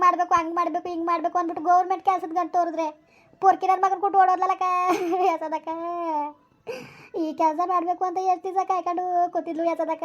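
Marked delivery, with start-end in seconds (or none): 3.4-10.0 tearful lament. Acted. Woman telling her sister of the girl who ran off, tearful lament. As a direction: lament it, letting each phrase sink into sobs.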